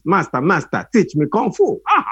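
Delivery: playful begging voice; funny pleading student. Acted. Preacher clowning a student begging his master. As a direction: ham up the eager student begging. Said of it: "let me say it in a funny place".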